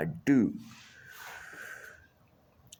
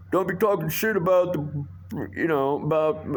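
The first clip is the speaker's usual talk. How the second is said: higher, put-on sneering busboy voice; mocking busboy voice; 4 semitones higher than usual. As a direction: mimic him to make him sound silly. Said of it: "and he's like".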